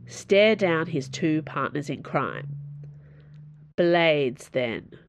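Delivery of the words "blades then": heavy voice. Acted. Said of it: "she said in a heavy voice".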